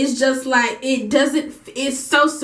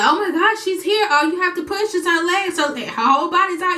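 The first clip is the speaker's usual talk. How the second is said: midwife imitated higher, lightly excited; a touch of the midwife's surprise; 5 semitones higher than usual. Midwife arriving to find the baby half born, lightly excited and high. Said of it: "And the midwife was like".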